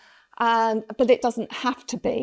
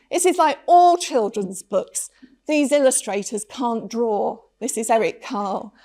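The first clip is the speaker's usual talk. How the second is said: scornful art lecturer; 5 dB louder than usual. Retold or imitated. Art lecturer dismissing the picture book, in mock scorn. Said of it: "The art lecturer said to me".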